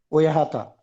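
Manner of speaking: "वो यहाँ था." with a falling end on "था"; statement tune. Shown as a demonstration. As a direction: let "था" drop as a plain statement. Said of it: "it's a statement".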